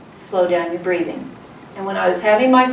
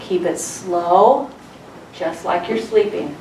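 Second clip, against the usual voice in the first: calm coaching; 3 semitones lower, 3 dB quieter than usual. Shown as a demonstration. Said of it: "I always tell them".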